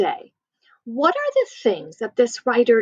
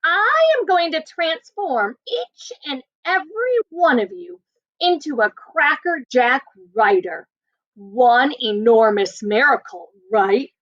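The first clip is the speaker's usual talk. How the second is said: snarl; slower than usual. Acted.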